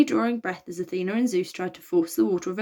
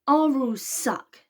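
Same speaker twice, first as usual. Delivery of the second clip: high, slow blurt; 6 semitones higher, slower than usual. A narrator's reading. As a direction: let it slip before thinking. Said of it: "Virgo blurted out".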